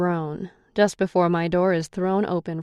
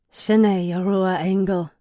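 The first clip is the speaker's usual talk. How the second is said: muttered; 4 dB louder, slower than usual. A narrator's reading. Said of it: "Brennis mutters".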